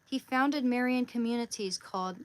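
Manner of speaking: reading aloud. Real, not acted. Speaker resumes the saint's life for viewers, reading aloud. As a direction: launch back into the written biography.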